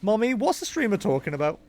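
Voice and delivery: a hint of a little girl; pretend daughter. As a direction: imitate a child asking mommy. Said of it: "my own daughter watching me stream".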